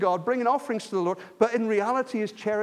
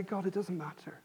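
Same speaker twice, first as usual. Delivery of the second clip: dismissive; 12 dB quieter than usual. Retold or imitated. Voicing careless dismissive people.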